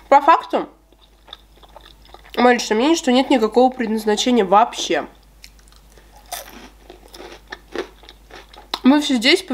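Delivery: talking while chewing; speaking between bites; mouth full of cake. Real, not acted. Seen 4: Bites at -1.0 and 4.9; cake visible in her mouth, chewing follows.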